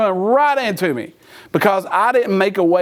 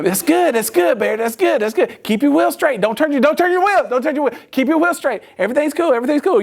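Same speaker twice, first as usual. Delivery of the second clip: higher, repetitive, urgent reassurance; anxious coaching; 5 semitones higher than usual. Retold or imitated. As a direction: imitate a dad nervously talking a learner through it. Dad coaches son backing up.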